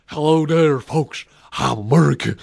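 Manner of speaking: lightly hammed-up American accent; bad American impression. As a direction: try too hard to sound American. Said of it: "bad attempt at being an American".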